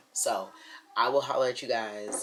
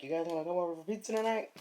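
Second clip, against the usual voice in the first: cheery neighbor voice; 6 semitones higher, much faster than usual. Retold or imitated. Neighbors' invitation quoted.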